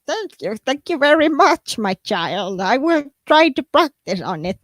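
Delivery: lightly voiced old grandma; a hint of a doting grandma. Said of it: "with this grandma's voice".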